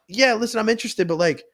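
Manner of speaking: high, loud impression of the lady; high brush-off voice. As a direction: play the busy lady on the phone, high and loud. Retold lady brushing off caller.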